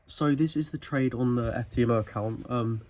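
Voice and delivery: winded, breathing hard between words. Real, not acted. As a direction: speak while still catching breath. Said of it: "so I'm so out of breath".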